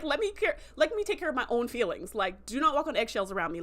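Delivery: imitating a pissed-off teen snapping back; hammed-up indignant rant; retold irritation. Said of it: "so pissed by that".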